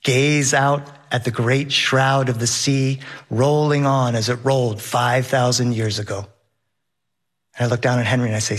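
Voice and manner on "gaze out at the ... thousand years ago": literary quote. Retold or imitated. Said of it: "to quote Herman Melville".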